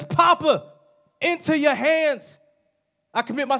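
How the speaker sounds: reach up to Papa with the voice; crying out. Acted. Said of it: "He screams out".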